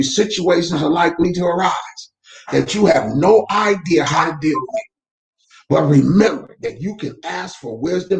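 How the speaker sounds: measured reading of a devotional text. Acted. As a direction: read it like a daily devotion to viewers. Reads daily devotional aloud.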